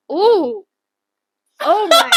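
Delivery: hammed-up high cooing wonder; imitating ASMR host. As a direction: coo high and loud, mocking a plucker's amazement. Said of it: "and then they'll be like".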